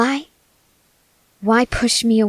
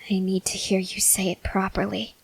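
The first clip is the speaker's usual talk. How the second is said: whisper; 6 dB quieter than usual. Acted. Demanding the confession again.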